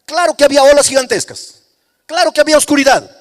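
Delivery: loud, rising sermon climax, each phrase hammered; full-force preaching. Acted. Pastor driving his point home to the congregation, loud fervent preaching.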